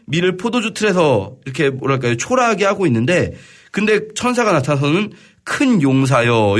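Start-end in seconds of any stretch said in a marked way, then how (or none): 5.4-6.6 slow, grand address like a heavenly messenger; slow solemn angel greeting. Retold or imitated. Angel hailing a timid farmer, slow and stately. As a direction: hail him slowly as a mighty warrior. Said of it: "이렇게 말하는".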